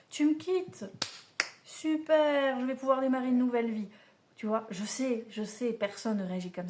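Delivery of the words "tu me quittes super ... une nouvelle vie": higher, louder mock delight at a breakup; célébration jouée. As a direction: celebrate being dumped, pitched up and brisk. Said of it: "on célèbre le truc". (rupture fêtée avec enthousiasme)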